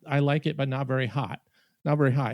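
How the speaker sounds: lightly imitated Spanish accent; Latina waitress's accent. Waitress answering a diner, in a Spanish accent. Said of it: "you know, in her accent".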